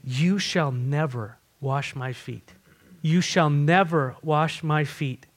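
slow, emphatic refusal weighted on "never"; measured, deliberate insistence on "never". Retold or imitated. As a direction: draw out "never" as a firm no. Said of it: "one of his emphatic".

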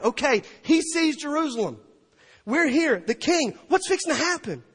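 high, loud anticipation; eager crowd. Acted. Preacher voicing people awaiting the king, loud excited anticipation. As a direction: imitate onlookers bursting with expectation.

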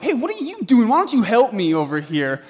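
retold upset dad demanding help; upset outburst. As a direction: snap at the people who won't help. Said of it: "I started to get upset at the people around me".

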